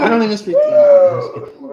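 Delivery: high laughing squeal. Real, not acted. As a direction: laugh through the words. Joking, laughing.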